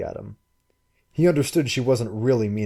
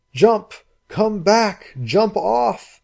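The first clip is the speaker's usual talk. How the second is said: urgent shout; 12 semitones higher, 7 dB louder, much slower than usual. Acted. Shouting to girl in surf.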